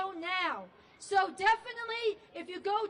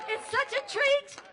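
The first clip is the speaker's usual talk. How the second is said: bright excited exclamation; excited gush; 6 semitones higher, 6 dB louder than usual. Real, not acted. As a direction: gush about the treat. Host gushes before performance.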